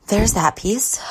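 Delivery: words stretched by a yawn. Real, not acted. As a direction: talk through a yawn. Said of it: "Pardon my yawns".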